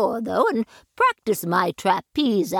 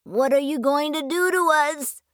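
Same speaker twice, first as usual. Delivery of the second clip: a hint of a scared boy; 7 semitones higher, faster than usual. Child character voice.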